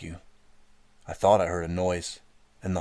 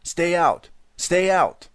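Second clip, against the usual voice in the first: high, loud repeated scream; boy screaming at the intruder to stay out; panicked scream; 11 semitones higher, 9 dB louder, much slower than usual. A narrator's reading. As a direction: scream it in terror. Pushing intruder back.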